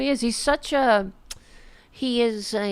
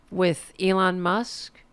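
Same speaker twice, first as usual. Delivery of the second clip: teasing whisper; slower than usual. Real, not acted. Teasing tomorrow's video.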